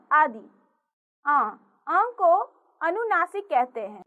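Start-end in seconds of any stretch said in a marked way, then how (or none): 1.2-2.0 अँ sounded through mouth and nose; nasalised vowel. Shown as a demonstration. Teacher shows children the anunasik, अँ said through mouth and nose. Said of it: "इसका उच्चारण मुख और नाक से".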